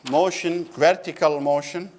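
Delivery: slow, word-by-word dictation pace. Shown as a demonstration. Teacher dictating a definition to the class, slowly. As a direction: spell it out slowly so students can write. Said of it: "So I write it here".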